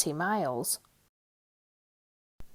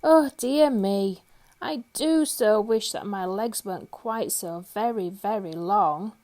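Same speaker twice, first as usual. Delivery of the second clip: sighing wish. Acted. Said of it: "he used to sigh".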